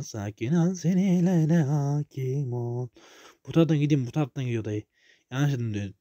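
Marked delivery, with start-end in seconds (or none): 0.0-2.9 mock calm. Calming himself mid-game.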